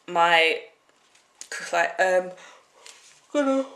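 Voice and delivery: words stretched by a yawn. Real, not acted. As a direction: talk through a big yawn. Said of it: "really yawned really badly".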